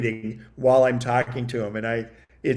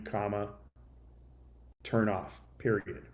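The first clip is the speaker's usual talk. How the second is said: dictation voice; 2 semitones lower, 3 dB quieter than usual. Shown as a demonstration. Showing viewers how to dictate to the phone, measured dictation voice. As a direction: read it out word by word for the phone to type. Dictates demo text again.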